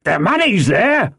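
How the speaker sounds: high call from the window; shouted answer. A narrator's reading. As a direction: yell the answer down to the road.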